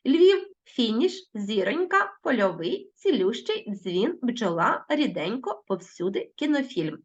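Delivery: повільно, як диктант; slow dictation. Shown as a demonstration. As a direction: read Львів, фініш like a dictation. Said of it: "Перевіряємо".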